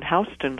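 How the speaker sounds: "Houston" said HOW-stun; New York street pronunciation. Shown as a demonstration. Guest gently corrects host on her name, "Houston" as HOW-stun. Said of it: "like the street in New York".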